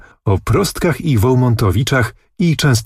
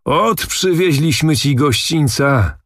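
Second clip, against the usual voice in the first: put-on higher, slow, hearty old noble; a jovial old nobleman bringing good news, slowly; raised, drawn-out boasting old noble; Zagłoba's voice; 6 semitones higher, slower than usual. A narrator's reading. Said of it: "wołał pan Zagłoba".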